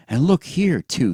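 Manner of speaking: high, loud panting excitement. Acted. Pee-wee panting as he points at the letter, high and loud. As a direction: pant it out, pointing eagerly. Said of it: "he panted".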